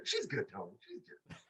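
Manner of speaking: very high, hushed squeak; mock brush-off. Answering the announcer's chair offer, tiny mock voice. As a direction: wave him off in a tiny falsetto. Acted soft, high reply to Tony.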